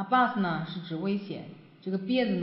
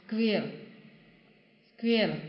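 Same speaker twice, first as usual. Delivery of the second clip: slow model pronunciation; 3 semitones higher, much slower than usual. Shown as a demonstration. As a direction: square said very slowly twice. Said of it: "teacher models the word slowly".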